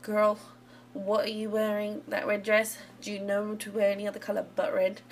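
voiced-over sim mocking an outfit. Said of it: "mock her outfit and be like".

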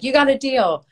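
high, bright-toned eager yes; cheerful agreement. Retold or imitated. Answering her neighbor's joke with a high, upbeat yes. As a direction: chirp it up high like a happy deal. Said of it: "I was like".

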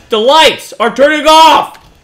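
rising panic as the lights die; sudden fright at the dark; alarmed. Real, not acted. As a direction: blurt it out, scared. Lights go out in horror game.

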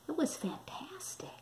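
soft dreamy whisper; savouring the scent. A narrator's reading. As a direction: breathe it in awe. Pig smelling the flowers.

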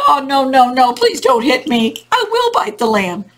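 mildly hammed-up alarm; crying out. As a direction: plead like a frightened storybook dog. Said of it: "But the dog cried out".

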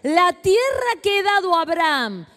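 preacher reading the promise aloud slowly; scripture reading. Acted. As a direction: declare the verse slowly over the congregation.

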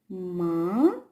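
Ма-ма said as two separate beats, Ма then ма; split into syllables. Shown as a demonstration. Teacher to children, showing Ма-ма in syllables. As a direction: tap out each syllable of Ма-ма. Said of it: "І ще раз".

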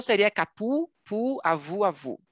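capu, pu, avu with u instead of o; wrong u sound. Shown as a demonstration. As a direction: show the mistake with u. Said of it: "Se não houver acento".

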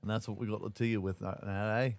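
half-hearted Dick Van Dyke British; accidental British accent. Pretend. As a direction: lightly slip into a mock British accent. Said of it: "I don't know why I'm going British".

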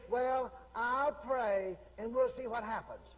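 mock noncommittal. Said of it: "if you just say".

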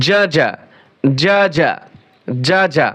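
hard, firm j sound in "যা, যা"; firm jim. Shown as a demonstration. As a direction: press the j firmly at the start of each "যা". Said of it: "জিম হরফ শক্ত হবে".

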